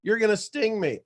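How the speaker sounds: high, loud panicked turtle; a frightened turtle cries out no; alarmed turtle. Acted. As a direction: shriek the refusal like a scared turtle. Turtle voiced in fable.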